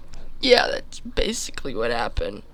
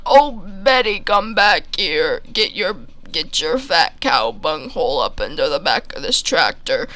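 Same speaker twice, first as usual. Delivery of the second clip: farmer calling cow. Retold or imitated. Farmer calling his cow Betty back to the tractor. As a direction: call the cow home from across the field.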